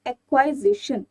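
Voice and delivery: careful teacher's model of एक्वाइजिशन; pronunciation demo. Shown as a demonstration. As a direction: sound out एक्वाइजिशन clearly, part by part. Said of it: "इस word की pronunciation क्या हो जाती है".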